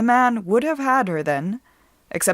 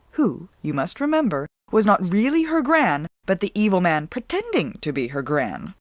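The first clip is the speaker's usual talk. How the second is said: ordinary delivery, nothing marked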